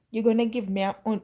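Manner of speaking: fast, sassy challenge; with attitude. Retold or imitated. To the Holy Spirit about the offering, fast sassy attitude. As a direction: say it fast with sass. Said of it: "with attitude".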